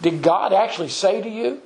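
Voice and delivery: "Did God actually say to you" as a doubting question; Satan's questioning inflection. Acted. Serpent questioning what God told the woman, insinuating inflection. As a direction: sow doubt, voice rising to the end on "say to you". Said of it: "I think, the inflection would be".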